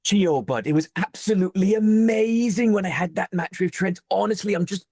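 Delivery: put-on a playful Welsh accent done on request. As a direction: put on a Welsh accent, lifting the voice high and lilting. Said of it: "That sounds more like a singer".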